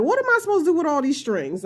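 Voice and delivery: confused beginner. Retold or imitated. Inexperienced viewer asking about all the yarn ends, mock bewilderment. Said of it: "inexperienced people that be like".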